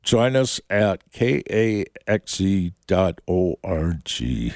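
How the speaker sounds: mild put-on Minnesota accent on the web address. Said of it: "working on my Minnesota accent there".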